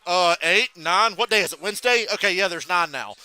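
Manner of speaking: loud sarcastic mock tirade; angry Bernie. Imitating Bernie mad at NASA over planet counts, irate sarcasm. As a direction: imitate an irritated, punchy rant. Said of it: "When he gets mad about nasa".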